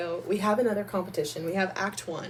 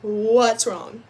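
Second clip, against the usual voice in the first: high, loud gushing mother; excited mom cheering her daughter; mom's voice; 10 semitones higher, 6 dB louder than usual. Retold or imitated. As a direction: play mom rushing in proud then worried. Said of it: "she was like".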